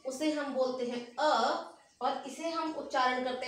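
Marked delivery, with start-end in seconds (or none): 1.2-1.7 अ said short with the mouth barely open; short a vowel. Shown as a demonstration. Teacher contrasting अ for children, short and closed. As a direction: clip अ short and small. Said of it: "मुख इतना बड़ा नहीं खुलता है".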